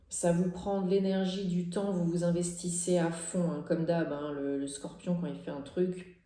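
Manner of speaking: talking through hiccups. Real, not acted. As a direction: hiccups breaking the flow. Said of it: "Pardon, j'ai le hoquet". (avec le hoquet)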